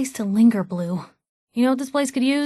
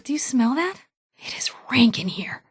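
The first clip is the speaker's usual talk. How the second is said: disgusted whisper; 2 semitones higher than usual. Acted. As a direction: hush it, grossed out. Disgusted in a foul place.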